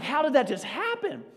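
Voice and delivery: high, laughing disbelief; baffled laugh. Retold or imitated. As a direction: marvel at your own blunder. Lost turkey, retold bewilderment.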